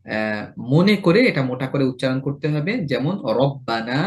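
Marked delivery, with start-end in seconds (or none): 3.4-4.0 রব্বানা slow with a thick র; heavy ra. Shown as a demonstration. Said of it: "এটাকে রাব্বানা বলা যাবে না".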